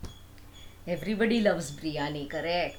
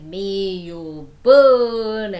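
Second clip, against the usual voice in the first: curse; 10 dB louder, much slower than usual. Acted. Sage curses the attacking demon.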